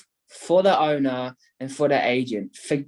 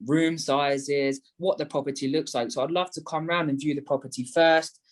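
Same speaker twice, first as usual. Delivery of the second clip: demo sales pitch. Shown as a demonstration.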